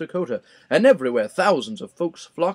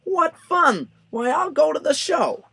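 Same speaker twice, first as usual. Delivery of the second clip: much higher, louder bird voice calling out; Maisie's sing-song call; 13 semitones higher, 3 dB louder than usual. A narrator's reading. Lazy bird Maisie spots the circus, high sing-song. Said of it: "she sang out".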